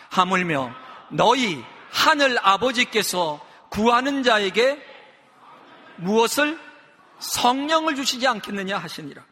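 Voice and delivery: slow, measured reading aloud for a congregation; deliberate, emphatic Bible reading; scripture reading. Real, not acted. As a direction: lead everyone through the verse phrase by phrase. Leads unison reading of scripture.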